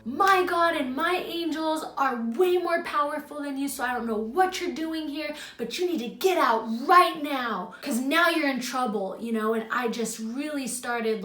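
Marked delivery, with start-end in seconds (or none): 0.0-9.2 forceful retelling of a yelled command, raised pitch; retold yelling. Dreamer banishing a dark presence, retold yelling. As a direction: order it out firmly, emphatic on key words. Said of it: "just yelling these things".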